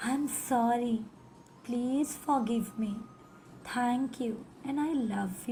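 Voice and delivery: very slow, heartfelt plea; full of gratitude. Shown as a demonstration. Teacher saying the mantra to her own body, slow and grateful. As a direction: draw each word out with gratitude. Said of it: "पूरे दिल से".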